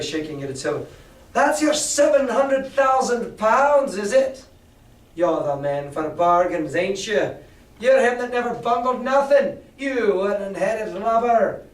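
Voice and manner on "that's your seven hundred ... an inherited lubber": higher, louder sneering tirade; angry pirate. Acted. Mary mocking Silver's failed bargain, angry sneer. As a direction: taunt him with contempt. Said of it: "roared Mary".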